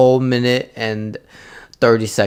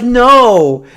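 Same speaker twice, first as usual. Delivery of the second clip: imitating waitress; 10 semitones higher, 10 dB louder than usual. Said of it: "She's like".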